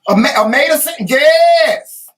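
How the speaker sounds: a sudden high, loud burst of recognition; joyful outburst of recognition; excited shout. Real, not acted. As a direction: shout it out, thrilled she knows it.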